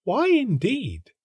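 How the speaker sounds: high, slow airy butterfly; butterfly chasing a sunbeam; fluttery butterfly. A narrator's reading. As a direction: float the question up lightly. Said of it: "said a butterfly".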